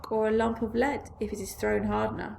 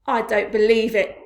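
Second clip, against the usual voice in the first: loud, raised voice; shouting; 11 dB louder than usual. A narrator's reading. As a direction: shout your disbelief. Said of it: "shouted the centipede, raising his voice".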